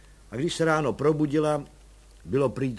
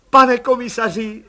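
solemn; 9 semitones higher, 11 dB louder than usual. A narrator's reading. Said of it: "řekla paní Landová slavnostně".

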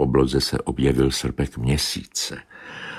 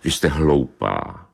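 angry retort; 2 semitones lower than usual. Acted. Bobeš to the she-cat, angrily. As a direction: put her down crossly. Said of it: "řekl zlostně kocour Bobeš".

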